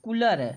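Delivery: कूलर clipped with a short उ; कूलर with a brief उ sound; short u demo. Shown as a demonstration. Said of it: "तो ये होता".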